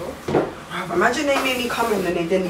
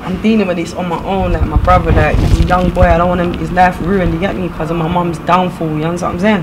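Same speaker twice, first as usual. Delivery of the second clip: louder, pained about family; upset; 6 dB louder than usual. Acted. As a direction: pour out worry about his brother.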